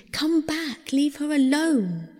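crying out. A narrator's reading. Trees call after Pluto as he flees, high protesting cry. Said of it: "The trees cried too".

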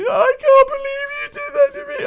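put-on high, loud hurt girlfriend voice; imitating the girlfriend. The girlfriend accusing him on the phone, high and loud.

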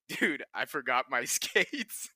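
slow, laughing through the confession; can barely finish the line for laughing; slow laughing quote; laughing retelling. Retold or imitated.

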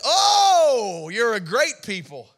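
mock-impressed oh, then dry; sarcastic praise, pretending to be impressed; man of God answering the boasting tribe, sarcastic. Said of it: "you can almost hear the sarcasm in his voice".

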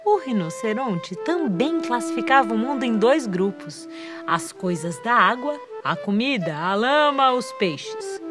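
put-on gentle story narration for children; fireside storytelling. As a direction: tell the tale warmly to children. Reads story aloud to children. (contação de histórias)

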